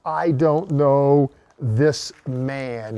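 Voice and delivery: very slow, weighted "I don't know this man"; heavy denial. Retold or imitated. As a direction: let the denial sink like a confession of failure.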